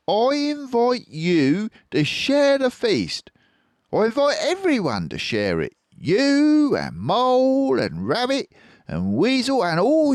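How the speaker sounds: generous Fox voice. A narrator's reading. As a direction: invite them grandly. Fox inviting all.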